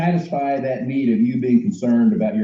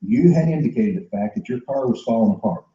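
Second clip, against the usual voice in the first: softer solution pitch; 3 semitones lower, 3 dB quieter than usual. Acted. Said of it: "We're bringing it to them by saying".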